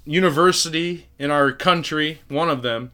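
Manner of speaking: sarcastic mock voice. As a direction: play it as mock praise, dripping with irony. Mocking MIT's hiring of a felon.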